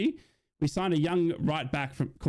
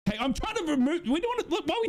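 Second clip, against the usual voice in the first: much higher, giggly objection; laughing protest; 13 semitones higher, faster than usual. Real, not acted. Fan refusing to talk about worse players, laughing high. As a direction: laugh it off and wave the topic away.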